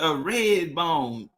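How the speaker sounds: slow, weighted red bone; drawn-out red bone. Shown as a demonstration. Explaining Louisiana to chat: slow emphatic red bone. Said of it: "Yeah, nigga".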